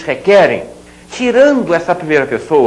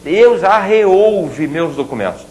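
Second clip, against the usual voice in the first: slow careful demo; slower than usual. Shown as a demonstration. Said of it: "quase ninguém mais fala dessa maneira".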